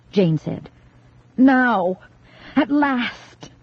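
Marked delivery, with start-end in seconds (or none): 1.4-3.5 triumphant cry. A narrator's reading. Girl attacking with axe, triumphant.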